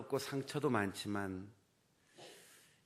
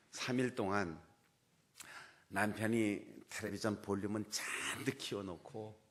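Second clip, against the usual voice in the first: usual speaking voice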